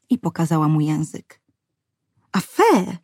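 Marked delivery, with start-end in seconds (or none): 2.3-3.0 a light, fond tut-tut; mild scolding. A narrator's reading. Mother gently scolding her spoilt little daughter, fond tut-tut. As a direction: scold the child gently, half in jest. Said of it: "upomniała ją matka".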